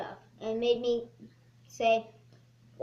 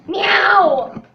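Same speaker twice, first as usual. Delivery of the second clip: cat meow; 4 semitones higher, 14 dB louder than usual. Acted. Kid meowing at cat.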